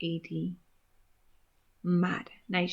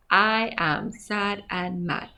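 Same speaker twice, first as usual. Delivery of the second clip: slow reading; slower than usual. Shown as a demonstration.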